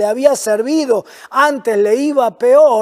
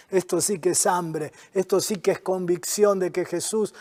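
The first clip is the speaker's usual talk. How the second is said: soft laugh of wonder, much softer; awed laugh; 5 semitones lower, 8 dB quieter than usual. Real, not acted. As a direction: laugh quietly in amazement. Preacher marvels at her faith.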